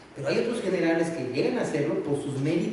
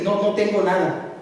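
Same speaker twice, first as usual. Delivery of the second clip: sulky wife; 3 semitones higher, 3 dB louder than usual. Acted. Wife denying she is angry.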